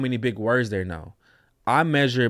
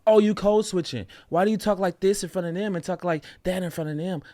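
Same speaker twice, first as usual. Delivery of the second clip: lightly voiced accuser, a little higher; mocking critic; 5 semitones higher than usual. Critic mocks him for code switching, a hint of a sneer. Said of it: "Call it what you want to".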